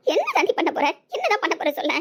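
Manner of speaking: high-pitched, frustrated outburst; exasperated demand. Acted. Mother confronting daughter who refuses marriage, exasperated. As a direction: demand an answer, pitch leaping up.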